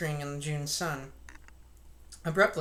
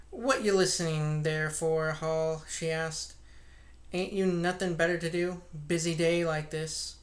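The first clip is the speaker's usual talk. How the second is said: scolding wife. Acted. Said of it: "she raised her voice".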